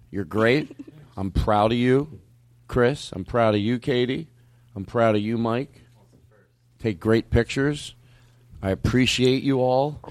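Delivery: slow, measured praise with a touch of sarcasm; mildly sarcastic praise. Real, not acted. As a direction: hand out compliments one by one, half tongue-in-cheek. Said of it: "in a sarcastic tone".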